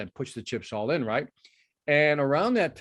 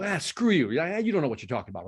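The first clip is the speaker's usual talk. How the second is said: mock dismissive; 3 semitones higher than usual. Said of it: "you go".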